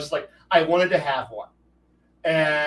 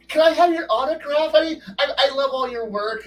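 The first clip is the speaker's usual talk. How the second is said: mock starstruck autograph plea, pitched up; eager fan; 8 semitones higher than usual. Fan asking a voice actor for an autograph, mock eager. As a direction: beg like a breathless fan. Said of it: "And not go".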